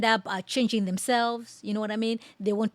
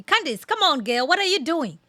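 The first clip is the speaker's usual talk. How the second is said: higher exasperated appeal; playful scolding; 6 semitones higher, 4 dB louder than usual. Acted. Reactor chides Candace over her comparison, exasperated scolding. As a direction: call her out like a friend, voice up.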